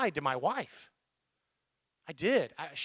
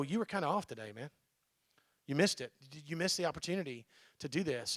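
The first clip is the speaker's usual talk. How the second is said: honest friendly critique; 4 semitones lower, 6 dB quieter than usual. Retold or imitated. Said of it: "close enough to go".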